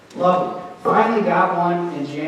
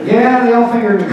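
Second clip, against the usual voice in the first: laughing reply; 6 semitones higher, 9 dB louder than usual. Retold or imitated.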